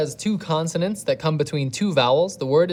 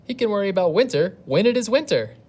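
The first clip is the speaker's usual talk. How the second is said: grasshopper scoffing; 7 semitones higher, 5 dB louder than usual. Acted.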